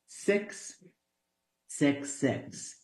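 soft, drawn-out count with pauses; hushed. Acted. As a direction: let each six hang quietly. Ominous pause on the number.

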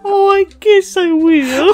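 slow, soft shy little voice; a shy stuffed bunny pouting. Pretend. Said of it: "a cute rabbit in an anime".

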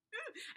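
quick high intake of breath; sharp gasp. Real, not acted. Booktuber gasps at the twist she remembers, sharp gasp. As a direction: gasp as if shocked. Reaction after reading.

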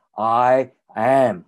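short unstressed "I", long stressed "am"; iambic stress demo. Shown as a demonstration. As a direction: stretch it slowly as an iamb, "I" light, "am" held. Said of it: "一个unaddressed， 一个stress， 一个short， 一个long".

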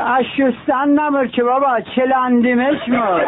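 put-on Qazvini accent. The Qazvini man answers the passerby in a broad Qazvin accent. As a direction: put on the Qazvin village drawl for the punchline. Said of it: "یارو قزوینی میگه".

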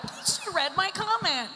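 mock troll heckler. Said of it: "one just clapped".

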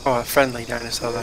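dry sarcastic remark; deadpan, quietly sarcastic. Real, not acted. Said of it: "I was being sarcastic".

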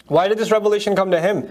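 ordinary talk, nothing marked

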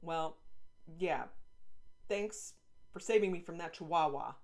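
grudging thanks. Acted. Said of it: "irritated and stupid".

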